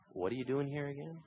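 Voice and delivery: very soft question; gentle, still, small voice. Acted. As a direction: ask it tenderly and quietly. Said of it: "That gentle, still, small voice".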